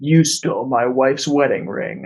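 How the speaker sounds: low, straight-faced, serious voice. Voicing Lumberjack Man, suddenly serious again after laughing: straight-faced, serious. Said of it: "goes all straight-faced again".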